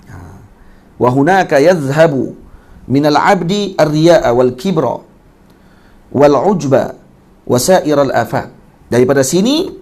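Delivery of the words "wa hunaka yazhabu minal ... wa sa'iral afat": measured slow Arabic text reading; slow recitation. Acted. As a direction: intone the classical text slowly.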